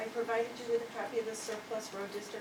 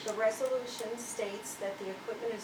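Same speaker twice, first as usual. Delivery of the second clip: projecting louder for the back row; speaking louder; 6 dB louder than usual. Real, not acted. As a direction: raise the voice so the room hears. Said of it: "Can you speak louder, please?".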